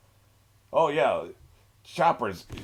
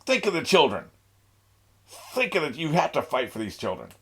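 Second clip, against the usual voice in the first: mock pleading; 4 semitones higher than usual. Voicing a pleading townsperson.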